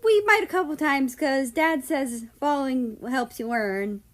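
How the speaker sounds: high, quick, then slowing; matter-of-fact little kid; honest. A narrator's reading. Sovi tells Australia honestly, high child voice. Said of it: "Sovi said honestly".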